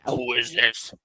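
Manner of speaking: low, mildly groggy phone answer; groggy sleep voice. Retold or imitated. Caller retells the man answering the phone, low sleepy voice. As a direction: imitate someone just woken by a call. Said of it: "half the sleep voice".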